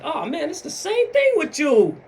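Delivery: high-pitched acted shout; rising hammed-up exasperated yell; exasperated outburst. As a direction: blow up at them in mock frustration. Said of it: "And you like".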